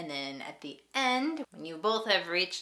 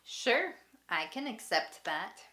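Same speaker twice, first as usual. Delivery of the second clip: eager agreement; 5 semitones higher than usual. Shown as a demonstration. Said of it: "you can reply with".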